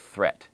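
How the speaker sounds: threat with an airy unvoiced th; just air on the th of threat; soft th demo. Shown as a demonstration. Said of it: "we looked at the T H sound".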